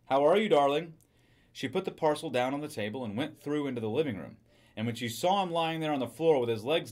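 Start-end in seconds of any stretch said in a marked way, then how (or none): 0.1-0.9 louder, lilting call; a sweet greeting called across the house. A narrator's reading. Wife greets husband from the kitchen, calling out. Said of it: "she called".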